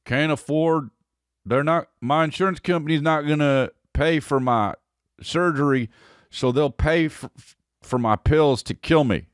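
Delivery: halting, mildly pleading imitation; a hint of a sick man explaining himself; dying man on film. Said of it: "there was a guy that's like".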